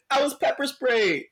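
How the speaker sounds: high whiny mock sob; mock crying. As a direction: imitate a crying woman in a high voice. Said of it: "she's crying".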